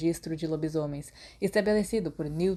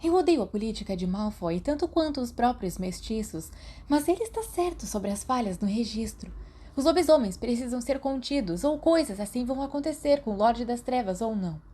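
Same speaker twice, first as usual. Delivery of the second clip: put-on higher, insistent girl's voice; Marlene voiced; 6 semitones higher than usual. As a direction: argue it firmly, higher.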